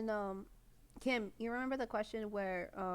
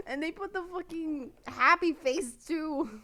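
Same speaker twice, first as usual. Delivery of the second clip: mock outrage; 7 semitones higher, 7 dB louder, slower than usual. Real, not acted. Outraged at troll comment.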